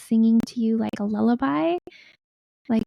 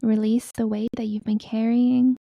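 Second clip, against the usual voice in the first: measured meditation voice, pausing between phrases; guided meditation. Acted. Healer telling listeners to release their burdens, guided meditation. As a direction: guide them to let go, unhurried.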